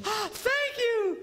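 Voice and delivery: very high, slow mock gush; hammed-up delighted wife. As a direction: swoon out a high thank you. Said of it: "and she goes".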